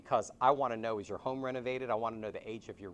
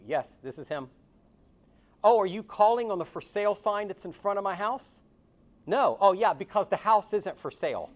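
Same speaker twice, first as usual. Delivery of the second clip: imitating a crotchety old dad, higher and louder; 9 semitones higher, 9 dB louder than usual. Imitating a crotchety old dad answering a stranger's phone call, higher and louder. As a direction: play the cranky old father swatting off a caller, pitched up and loud. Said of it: "my dad is this crotchety eighty-six-year-old man".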